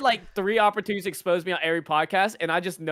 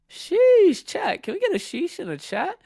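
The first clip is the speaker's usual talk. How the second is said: hype shout; 9 semitones higher, slower than usual. Real, not acted. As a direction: hype up the chat. Hyping up the chat.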